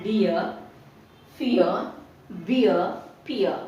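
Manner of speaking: DEAR, FEAR, BEER, PEER ending without a full R; soft or silent R. Shown as a demonstration. Teacher shows words ending in R, R half said or silent. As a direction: let the final R of DEAR and PEER fade to a vowel. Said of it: "half పలకాలి".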